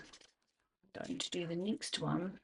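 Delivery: soft scheming. Acted. Continues scheming softly.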